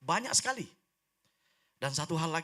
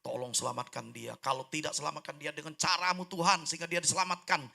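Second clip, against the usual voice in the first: fervent prayer; 5 dB louder than usual. Retold or imitated. New believer praying for a sister, fervent prayer. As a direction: pray it with growing insistence. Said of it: "Oh, saya berdoa".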